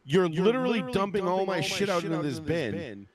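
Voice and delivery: drawn-out, incredulous mock protest; slow indignation, played in a retelling; retold indignant protest. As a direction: imitate an outraged relative, stretching the words. Retelling sister-in-law's protest at bag search.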